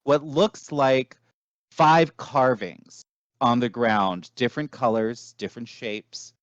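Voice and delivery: deliberate storyteller with dramatic pauses; game master narration. Acted. Game master showing players a city of devils, measured narration. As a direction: set the scene, letting key phrases hang.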